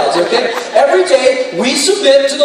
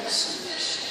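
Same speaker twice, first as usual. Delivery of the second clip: hushed, breathless whisper of the word; 15 dB quieter than usual. Shown as a demonstration. Preacher leads the congregation in a whispered submission. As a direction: let Submission fall to a bare whisper. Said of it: "Whisper, okay?".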